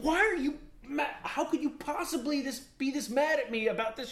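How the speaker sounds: lightly voiced confused husband; retold argument. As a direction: ask it as if truly lost. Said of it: "I was like".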